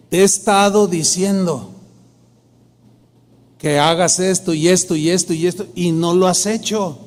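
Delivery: God's voice, firm yet loving; firm but loving. Retold or imitated. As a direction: scold gently but firmly, slowing down. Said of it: "sentía la voz de Dios firme, con amor, pero firme".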